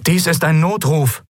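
high-pitched voice over a noisy transmission; crackly radio distress call. A narrator's reading. Stranger's distress call bursts onto the bridge, crackly high voice. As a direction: send out a strained distress call. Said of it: "rauschte unerwartet eine fremde Stimme".

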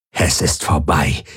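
low creature growl. A narrator's reading. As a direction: growl it with finality. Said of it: "knurrte die Aur".

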